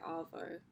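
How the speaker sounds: "arvo" in her own Australian accent, AH-voh with no R; Australian slang. Shown as a demonstration. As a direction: drop the R in "arvo" like an Aussie. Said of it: "we say".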